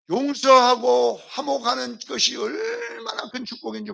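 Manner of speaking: tearful shouted appeal; impassioned preaching cry. Real, not acted. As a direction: cry it out to the congregation, slowly.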